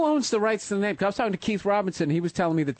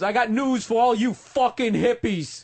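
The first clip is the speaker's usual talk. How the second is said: slow mock Bowser declaration; 4 semitones higher, slower than usual. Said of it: "it goes".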